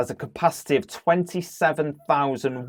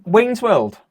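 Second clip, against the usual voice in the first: Wayne's World voice; 9 semitones higher, 4 dB louder than usual. Pretend. Quoting Wayne's World catchphrase.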